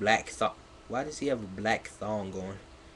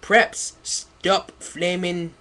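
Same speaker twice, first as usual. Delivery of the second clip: mock whiny author voice; 7 semitones higher, 6 dB louder, much slower than usual. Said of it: "let me read this".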